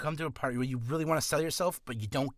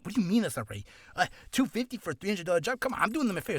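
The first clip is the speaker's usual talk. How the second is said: mock-indignant, higher-pitched comeback; upset protest; 5 semitones higher, much faster than usual. Undercutting voice actor defends a cheap rate, mock upset protest. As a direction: protest in a rising, put-out voice. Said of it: "if they get upset, obviously they're gonna be like".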